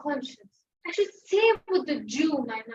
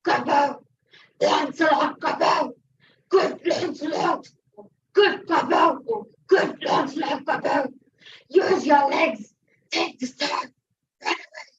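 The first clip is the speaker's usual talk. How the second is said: loud, pressing devil's voice, rising at the end; fiend urging; 4 dB louder, slower than usual. Acted. The fiend at his elbow urging him to flee, loud and pushy. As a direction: egg him on to run like a tempter. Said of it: "saying to me".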